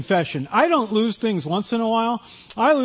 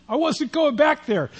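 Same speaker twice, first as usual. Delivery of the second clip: high, slow, through laughter; laughing; 8 semitones higher than usual. Real, not acted. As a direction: let a real laugh run through the words. Laughs at own fear of returning.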